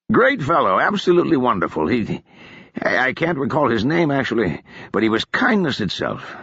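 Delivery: a hint of a jolly sot praising a friend; cheerful drunk.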